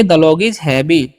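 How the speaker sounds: The log is heavy spoken very slowly and clearly; slow dictation for learners; slow model sentence. Shown as a demonstration. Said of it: "तो क्या बोलेंगे". (धीमे उच्चारण में उदाहरण वाक्य)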